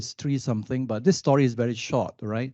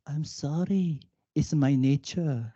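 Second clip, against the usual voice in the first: calm scorpion; 4 dB quieter, slower than usual. Acted. Scorpion answers in fable.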